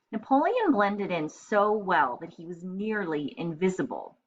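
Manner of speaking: lively read-aloud storytelling voice; story narration. A narrator's reading. Teacher reading a picture book to children, lively. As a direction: read it brightly to young kids.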